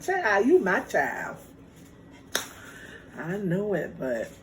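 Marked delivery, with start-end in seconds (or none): 0.0-1.4 laughing mom. Retold or imitated. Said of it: "She started laughing like".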